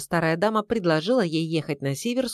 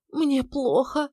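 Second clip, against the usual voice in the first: moaning; 7 semitones higher, slower than usual. A narrator's reading. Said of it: "простонала Наталья Дмитриевна".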